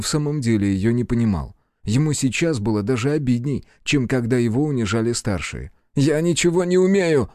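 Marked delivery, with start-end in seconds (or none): 5.9-7.3 snapped out. Acted. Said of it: "бросил он".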